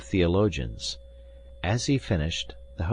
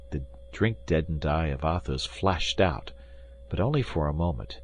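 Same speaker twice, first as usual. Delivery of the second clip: usual speaking voice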